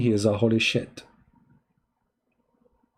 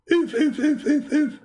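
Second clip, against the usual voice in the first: much higher, stammering through a laugh; can't get the words out for laughing; laughing splutter; 13 semitones higher than usual. Real, not acted. Laughing mockery of the claim.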